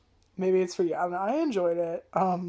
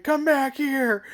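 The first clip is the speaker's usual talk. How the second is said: higher, louder and slowed, hammed-up villain yell; mock chase call; 6 semitones higher, 6 dB louder, much slower than usual. Reviewer imitating the chasers yelling at Seiichi, hammed-up call. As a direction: call out after him like a cartoon chaser. Characters chasing Seiichi over rooftops.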